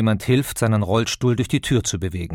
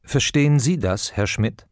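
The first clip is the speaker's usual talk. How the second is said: title question with Sie stressed, falling away. Shown as a demonstration. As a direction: lean on the word Sie. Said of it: "Mit Betonung auf dem Sie". (Betonung auf dem Sie)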